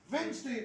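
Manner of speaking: वेडनेसडे said wenz-day, the d dropped; silent d demo. Shown as a demonstration. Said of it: "डी तो silent हो गया". (वेडनेसडे में डी silent, वेन्ज़डे बोलें)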